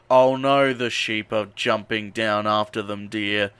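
low, slow deadpan dismay; mock dismay. Recapping sheep jumping down after them, deadpan mock dismay. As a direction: drop low and feign concern, unhurried.

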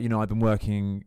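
hint of a Southern US accent. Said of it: "thick Southern accent".

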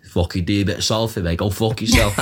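dad's sweary Salford Manc; Manchester accent. Shown as a demonstration. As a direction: put on a blunt Salford accent. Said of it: "I could do a Manc".

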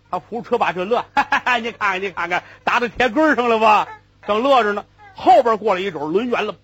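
usual speaking voice

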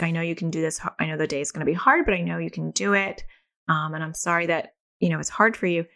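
calm, tender reassurance example; empathizing and reassuring. Shown as a demonstration. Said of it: "empathizing and reassuring".

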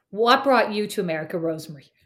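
put-on Irish speaker faking an American accent. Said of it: "my best American accent".

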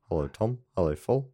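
comic Kiwi radio characters; put-on New Zealand greeting; New Zealand accent. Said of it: "Kiwi I can do is".

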